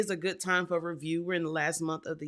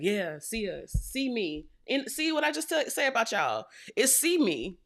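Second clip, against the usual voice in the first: rising higher into a laughing brag, a lightly voiced show-off; fire energy boasting; 4 semitones higher than usual. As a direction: let it climb and crack into a laugh. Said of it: "All that energy is like".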